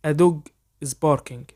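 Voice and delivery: very slow, careful English for learners to copy; slow dictation pace; slow model sentence. Shown as a demonstration. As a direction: spell it out slowly so students can repeat. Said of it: "حاول تقلدني".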